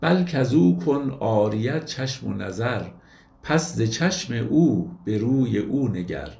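slow, measured reading of classical verse; poetry recitation. Acted. Lecturer reciting a Rumi verse to his audience, slow and measured. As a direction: recite the couplet slowly, savouring each word.

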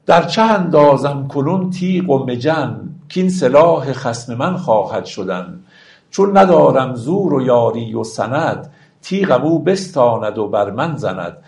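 slow, measured verse reading; stately classical verse delivery; poetry recitation. Acted. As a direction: recite the couplets with drawn-out, metered phrasing. Recites verse between explanations.

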